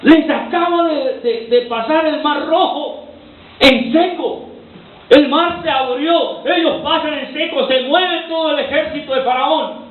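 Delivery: excited retelling. Acted. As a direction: paint the miracle with wonder. Preacher retelling Red Sea crossing.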